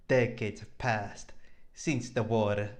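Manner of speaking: slow, solemn story narration. Acted. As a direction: set the scene slowly. Narrates the scene slowly.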